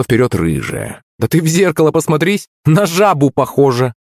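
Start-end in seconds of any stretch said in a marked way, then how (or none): 1.2-3.9 high mocking schoolgirl voice; taunting girl. A narrator's reading. Girl insulting Yulenka to her face, taunting. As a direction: sneer at a rival in a high pitch.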